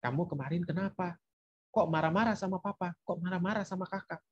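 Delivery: softly put, non-blaming questions; calm parent checking in with a teen; asking nicely. Acted. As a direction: ask gently, keeping a cool head. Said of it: "lalu kita tanya baik-baik".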